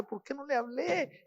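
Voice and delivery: quietly grieving to himself; retold crying. Son remembering his silence with his father, mildly tearful. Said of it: "después lloraba y decía".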